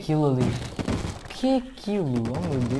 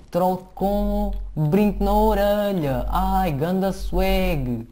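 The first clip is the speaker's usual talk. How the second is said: mock silly voice; 5 semitones higher, 4 dB louder, much slower than usual. Mocking the troll's earring.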